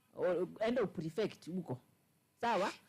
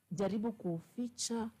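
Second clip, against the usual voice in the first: slow plea; slower than usual. Real, not acted. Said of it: "slow deliberate plea".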